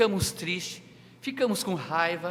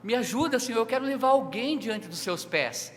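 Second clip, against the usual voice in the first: higher, louder pleading prayer; crying out to the Lord; 5 semitones higher, 3 dB louder than usual. Retold or imitated. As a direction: beg God earnestly, voice lifted. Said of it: "eu clamava ao Senhor".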